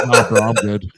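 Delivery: loud dismissive brush-off. Retold or imitated. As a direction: wave off a petitioner. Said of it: "like I shoved off a surveyor".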